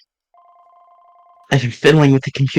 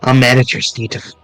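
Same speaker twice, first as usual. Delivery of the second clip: cold villain; 3 semitones lower than usual. Acted. Manager revealing she faked the friendship, coldly sneering. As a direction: sneer the betrayal calmly.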